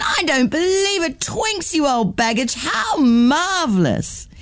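a teacher thrilled to see her oldest friend; Miss Ferguson delighted. Acted. Teacher greets old friend.

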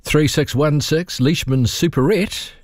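slow, sing-out phone answer; grocer's telephone greeting; shop phone greeting. Retold or imitated. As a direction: answer the family shop's phone, drawn out. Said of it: "That was it".

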